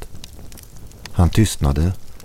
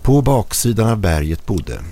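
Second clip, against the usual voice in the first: mildly hammed-up storyteller voice; a touch of fairy-tale narration; 5 semitones higher than usual. A narrator's reading. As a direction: tell it like a bedtime fairy tale. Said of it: "fortsatte med sin sagoröst".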